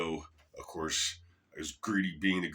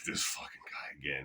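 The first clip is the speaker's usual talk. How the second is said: annoyed mutter; 2 semitones lower, 4 dB quieter than usual. Retold or imitated. The speaker spots the fan again.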